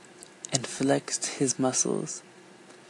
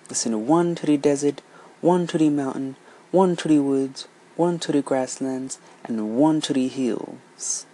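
louder, firm list of orders; elephant's commands; 4 dB louder than usual. Acted. The elephant orders the woman, louder and firm. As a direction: count off each place firmly.

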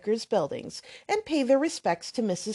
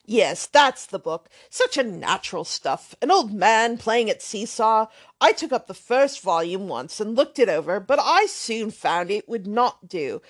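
put-on brash, offhand young man swearing lightly; lightly voiced loud young rake; blustering braggart; 4 dB louder than usual.

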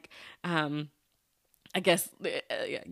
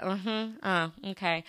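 sassy attitude; slower than usual. Retold or imitated. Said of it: "that was my attitude".

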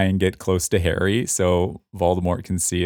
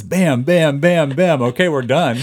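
higher, punchy mock sound-effect hits; rapid-fire recap; 7 semitones higher, 5 dB louder than usual. Reader recapping a chapter that was over so quickly, punchy rapid-fire recap. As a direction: fire off each bam like a quick blow.

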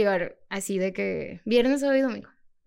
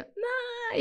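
a short squeal of fear while falling; retold scream; 13 semitones higher, 7 dB quieter than usual. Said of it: "empecé a gritar así a madres". (grito agudo de miedo, contado, sin mucha fuerza)

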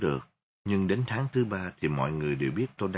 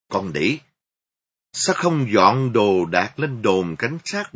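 furious scolding; 6 dB louder than usual. Acted. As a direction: lash out with every word. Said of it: "Còn má tôi thì chửi rủa".

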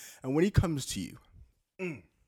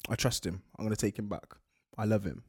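low, soft acted girlfriend confiding; lightly acted besotted admission; lovestruck girlfriend; 8 semitones lower, 5 dB quieter than usual. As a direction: confess it quietly down low. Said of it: "And she's like".

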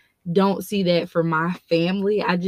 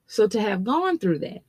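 talking while chewing gum; words around a wad of gum; faster than usual. Real, not acted. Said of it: "I got gum in my mouth".

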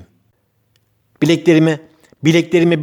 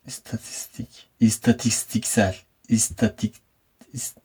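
whispering; 6 semitones lower, 12 dB quieter than usual. Real, not acted. Whispers while fumbling the word.

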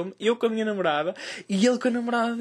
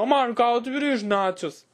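retold shout; 4 semitones higher than usual. Comedian quoting his friend's cry across the cinema, mild mock shout. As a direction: imitate someone calling across a room. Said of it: "Ele literalmente gritou".

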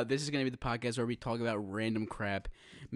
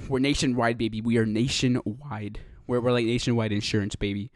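hype shout; 7 dB louder than usual. Pretend. Hyping themselves loudly.

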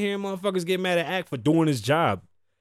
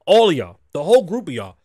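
louder, punched call-out to the whole group; too loud; 3 semitones lower, 5 dB louder than usual. Real, not acted. Podcaster calls out rival crews, loud and heated. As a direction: bark it at everyone at once. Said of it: "am I too loud?".

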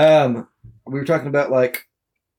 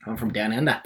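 attempted Australian accent; 2 semitones lower, 7 dB quieter than usual. Shown as a demonstration. Friend showing off an accent attempt, attempted Australian accent. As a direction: try out an Australian twang, casually. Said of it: "Australian's easier to do".

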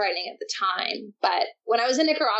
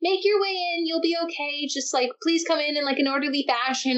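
lightly imitating a breezy lifeguard, pitched higher; breezy, overly relaxed announcement; mock casual calm; 5 semitones higher than usual. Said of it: "They said it so casually".

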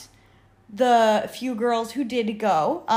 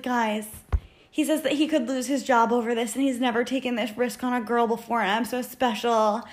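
excited gushing; 3 semitones higher than usual. Retold or imitated. Retells friend's gushing report to group.

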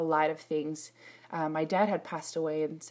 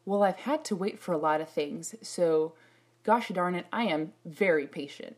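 indignant thought. Retold or imitated. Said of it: "I thought".

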